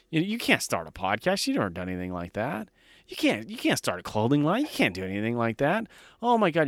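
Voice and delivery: lightly voiced incredulous naysayer, pitch climbing; a hint of a scandalized relative scolding; mocking doubters. Imitating everyone who called his real estate plan crazy, mildly mocking. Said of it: "how many people fucking told me that".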